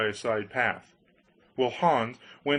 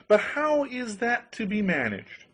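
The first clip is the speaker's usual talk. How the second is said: eager Hans voice; 10 semitones higher than usual. Acted.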